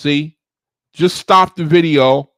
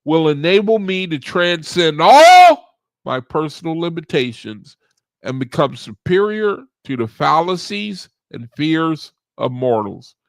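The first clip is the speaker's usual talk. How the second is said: measured recital with swelling key words; affirmation recital. Acted. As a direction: intone it in deliberate phrases, leaning on ALL.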